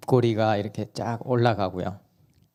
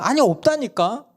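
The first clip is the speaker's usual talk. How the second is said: mother refusing; 12 semitones higher, 5 dB louder than usual. Retold or imitated. Mom refuses child.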